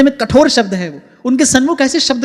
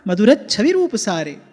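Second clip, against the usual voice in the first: lower, unhurried chant of Sanskrit praise; hymn recitation; 3 semitones lower, slower than usual. Acted. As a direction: devotional hymn intoned to the congregation.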